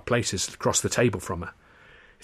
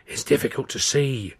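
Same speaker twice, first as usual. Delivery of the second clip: puzzled seer; 4 semitones higher, 4 dB louder than usual. Acted. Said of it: "she's acting puzzled now".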